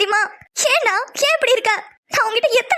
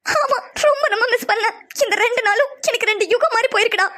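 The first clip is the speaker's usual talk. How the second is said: tearful confession. Acted. Telling Sham she missed him, through tears. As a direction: let the tears come as you confess.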